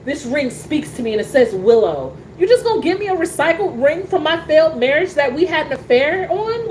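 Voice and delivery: imitating Willow scolding her husband; indignant wife. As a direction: hurl it at him like a betrayed wife. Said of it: "I look at him like".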